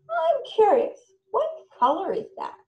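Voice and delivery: bright, high curious question; wide-eyed wondering question to a child. Shown as a demonstration. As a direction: sound genuinely curious about it. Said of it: "so you can model curiosity".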